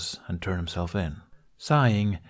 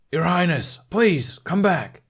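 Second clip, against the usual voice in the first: high pleading call, a bit louder; 9 semitones higher, 5 dB louder, slower than usual. A narrator's reading. A guard calling after the fleeing prince, high and pleading. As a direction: call after him across the square.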